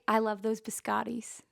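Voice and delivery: casual American "biscottis", bis-KAH-deez; plainly Americanised "biscottis"; American pronunciation. Shown as a demonstration. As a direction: say "biscottis" with the T softened to d. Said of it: "I would say".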